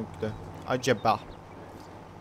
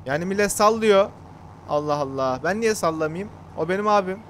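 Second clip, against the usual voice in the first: sinirli; 3 semitones higher, 3 dB louder than usual. Real, not acted. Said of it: "Bak sinirlendim".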